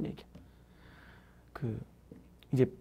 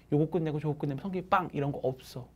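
usual speaking voice

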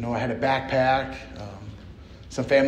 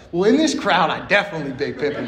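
laughing brag; 2 semitones higher than usual. Retold or imitated. His cocky unspoken reply.

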